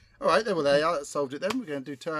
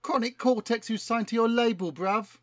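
lightly voiced London rapper, keen; a hint of a slangy London rapper; street rapper voice; 3 semitones higher, 4 dB louder than usual. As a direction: talk like a cocky MC pitching a hit. Plays rapper Chronic Cortex.

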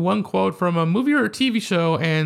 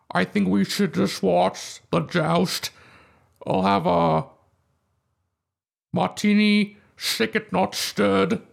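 mock Scottish Bond. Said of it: "what other impressions can you do".

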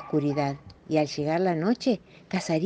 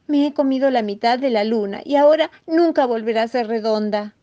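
higher, louder distressed mouse; anguished confession; 6 semitones higher, 5 dB louder than usual. Acted. Mouse confesses to the mole what he ate, anguished confession. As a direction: lament it in a small worried voice. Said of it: "bastante angustiado".

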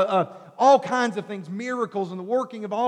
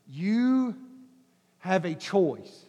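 soft, slow and quiet; gentle, slow offer; 4 semitones lower, 3 dB quieter, much slower than usual. Retold or imitated. God offering the listener a choice, softly.

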